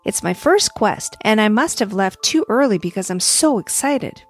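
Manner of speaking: lightly excited little star; sparkly tinkling star voice. Acted. The star explains.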